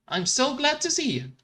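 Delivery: high chirpy Felix. Acted. Felix greeting Ralph, high chirpy relief. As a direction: play the sweet eager handyman.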